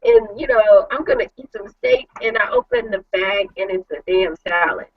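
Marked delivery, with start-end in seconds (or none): 0.0-2.1 high, gleeful anticipation; excited. Retold or imitated. Wife retelling her joy at husband's steak bag, high and gleeful. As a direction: gush like a kid promised a treat. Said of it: "And I'm all excited".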